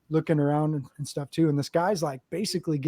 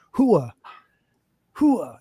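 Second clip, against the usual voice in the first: mock Marine call; 4 semitones higher, 5 dB louder than usual. Gangbanger shouting Marine call.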